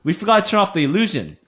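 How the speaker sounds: lightly voiced gnome; apologetic gnome. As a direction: explain yourself hurriedly to strangers. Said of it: "And he's like".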